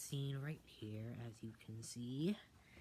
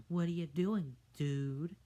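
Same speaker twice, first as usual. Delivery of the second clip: dog voice; 4 semitones higher, 8 dB louder than usual. Acted. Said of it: "asks the Downward Dog".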